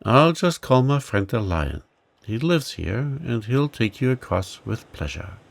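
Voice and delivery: a hint of a small creature boasting of a friend; mild squeaky mouse, cheerful; mouse, confident. Mouse reassures Rosie.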